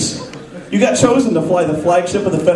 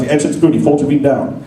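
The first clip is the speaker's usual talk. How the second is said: captain's order; 5 semitones lower than usual. Retold or imitated. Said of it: "He goes".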